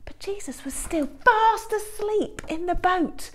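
hushed, so as not to wake him; whispering about sleeping Jesus. A narrator's reading.

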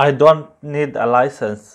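slow, loud, spelled-out phrase; slow, clear to a machine. Real, not acted. Caller answering the licence line robot, slow and loud. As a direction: speak it slowly so the robot understands. Answering automated phone menu.

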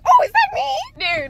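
very high, slow innocent voice; high, drawn-out mock innocence; mock confused kid. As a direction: play dumb like a clueless kid.

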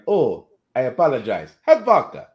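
put-on terrible Russian accent; Rocket Red. Russian hero apologizing after a beating, bad Russian accent. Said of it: "it's a terrible Russian accent".

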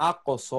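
আকস ending on a long, held "সো"; one-alif elongation. Shown as a demonstration. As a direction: stretch the last vowel of আকস. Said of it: "এক আলিফ টেনে পড়তে হয়". (আকস-র শেষ স্বর এক আলিফ টেনে পড়া)

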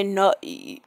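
"nutty" in a lightly put-on British accent; a hint of British accent on "nutty". Shown as a demonstration. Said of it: "like a British accent".

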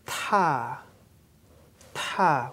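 crisp Korean "ta" with a strong T. Shown as a demonstration. Teacher showing a Korean letter to students, crisp "ta". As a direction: say "ta" sharp and clean, tongue on the teeth. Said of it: "Its sound value is".

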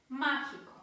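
mágico with a high MÁ; mágico, accented third syllable from the end; stress on first syllable. Shown as a demonstration. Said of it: "Trzecia sylaba od końca".

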